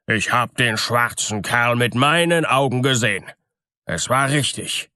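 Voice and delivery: lightly voiced miller, impressed; amazed miller. Miller saw the black fellow flee, mildly amazed voice. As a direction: insist on it with a touch of amazement.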